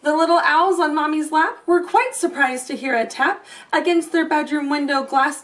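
lilting storybook read-aloud; reading to children. A narrator's reading. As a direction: read it like a bedtime story to little ones. Reading rhyming picture book aloud.

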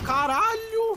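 sudden high yelp of shock; startled shout. Real, not acted. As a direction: shriek in surprise. Sudden enemy surprise in game.

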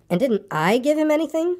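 high, plaintive question; wistful child's query; sad. A narrator's reading. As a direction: ask it pitched high, a touch hurt. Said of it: "asked Christopher Robin sadly".

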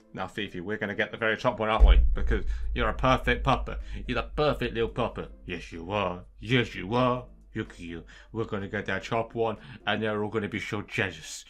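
dote on the good puppy; puppy talk. Real, not acted. Player praising Fifi the puppy, tender puppy talk.

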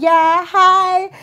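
high, loud eager greeting; hopeful hi. Retold or imitated. Picking up the nurse's call, high eager hello. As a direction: answer full of expectation. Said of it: "I was like".

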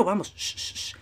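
sudden drop to a soft, low hush; sigilo. Pretend. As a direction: shush yourself mid-game. Hushes himself after cheering. (de pronto bajito, con sigilo)

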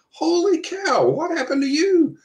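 high, loud amazed exclamation; astonished bus driver. Retold or imitated. Bus driver shocked to see the man hopping aboard, astonished high exclaim. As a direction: gasp it out like you can't believe your eyes.

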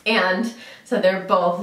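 normal talking voice

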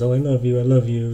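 imitating girls saying love you lightly to friends; breezy casual I love you. Mimicking girls telling best friends, breezy and loud. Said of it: "they say it very loose".

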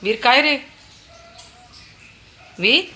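high, loud call to her son; sing-song wake-up call. Real, not acted. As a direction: call him from across the room. Mother calling sleeping child.

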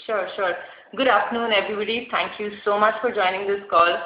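talking through a face mask; muffled behind a mask. Real, not acted. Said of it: "my voice may be slightly muffled behind the mask".

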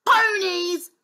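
high, loud princess bellow; bossy child's shout. Acted. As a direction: bellow your demand. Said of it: "bellowed the little princess".

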